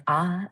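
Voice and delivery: "a" as a wide-open ah; open vowel demonstration. Shown as a demonstration. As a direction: show the vowel "a" as ah, mouth opened. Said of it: "just opening up mouth".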